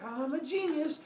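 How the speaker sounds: high, pleased-with-himself crow; mock self-congratulation. Kronos congratulating himself on his scheme, high smug voice. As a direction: lift the pitch, hammily smug.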